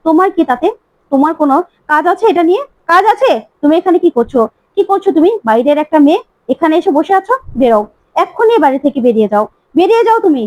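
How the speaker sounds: ordering the outsider out of the house; mock furious daughter; furious rant. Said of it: "টিপ প্রচন্ড রেগে যায় গীতার উপর আর বলে".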